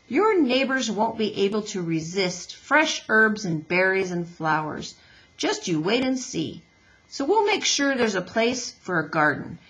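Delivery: lightly voiced hearty advice-giver; a hint of a folksy, friendly builder; Mister Beaver. Voices Mister Beaver advising Roz.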